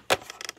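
soft little laugh; amused chuckle. Real, not acted. Host cannot close the lid, amused chuckle. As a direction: laugh briefly under your breath.

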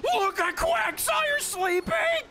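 delighted squeal. Real, not acted. Squealing at sleeping Quagsire.

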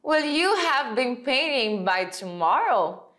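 slow question with a rising tune on "tomorrow"; question intonation. Shown as a demonstration. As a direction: ask "Will you have been painting by tomorrow?" slowly, as a real question. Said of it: "é interessante que você faça a entonação". (entonação de pergunta, bem devagar)

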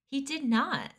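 high, loud denial; loud protest. Acted. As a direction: object sharply. Defending Dune loudly.

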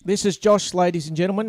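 playful show-host announcement; mock announcer. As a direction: present them like a star act. Introduces Josh like an act.

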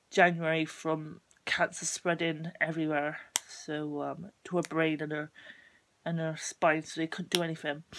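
stuffy bunged-up nose; blocked nose. Real, not acted. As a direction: talk through a head cold. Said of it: "I'm sorry if I sound a bit bunged up".

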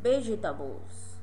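slow model word. Shown as a demonstration. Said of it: "Repeat again".

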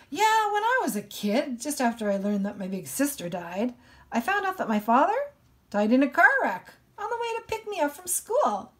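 high, fast mock melodrama; dramatic. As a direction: overdo the tragic news. Dramatic reading of imagined tragedy.

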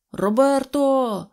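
high, drawn-out call. A narrator's reading. Switchman calling his sleeping son, hollering. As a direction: holler a name across the yard. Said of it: "гукнув стрілочник".

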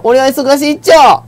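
character voice. Acted. Voicing game character Pa-nyo.

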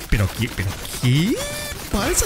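baffled gamer, soft start leaping up in pitch; real stunned confusion; bewildered disbelief. Real, not acted. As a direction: voice climbing high on the last word. Startled when killed in the game.

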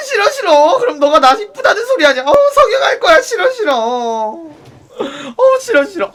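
half-laughing, half-sobbing mock whine; whiny disgust. Wailing no at the pushy club guy. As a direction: whimper no over and over like a spoilt child. Whining refusal.

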